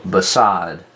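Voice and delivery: "beside" slowly, with weak be and strong SIDE; stress on SIDE. Shown as a demonstration. Teacher showing students how to hear stress, "beside" with SIDE stressed. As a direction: lean on the second syllable of "beside". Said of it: "You can hear the stress on the side part".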